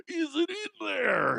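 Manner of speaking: high, slow mock woman's question; a hammed-up wife asking. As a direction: ask it in a high put-on voice. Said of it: "She's gonna say".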